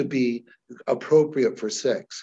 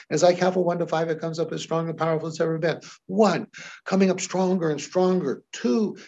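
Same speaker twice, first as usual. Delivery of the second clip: rising, faster, more urgent; building excitement; 2 semitones higher, faster than usual. Shown as a demonstration. Hypnotist building a client's feeling, excited and rising. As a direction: pump up the emotion as you count. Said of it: "So I reflect that in my voice".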